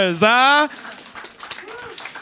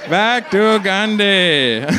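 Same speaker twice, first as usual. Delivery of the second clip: drawn out slowly for effect; a deliberate, slowed-down echo; slow repeat; 2 semitones lower, much slower than usual. Real, not acted. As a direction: stretch "Back to Gandhi" out slowly.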